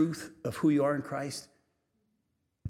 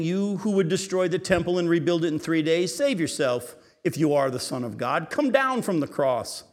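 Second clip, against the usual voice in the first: mocking taunt; 3 semitones higher, 4 dB louder than usual. Mockers taunting Jesus at cross.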